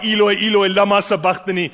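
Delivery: a desperate cry from a broken soul; anguished cry. Acted. Broken people in church crying out to God, anguished. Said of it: "when people in the church cried".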